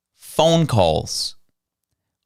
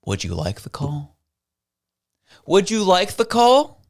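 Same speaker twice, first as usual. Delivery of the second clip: mock Evan Solomon; 5 semitones higher than usual. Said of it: "And Evan Solomon says".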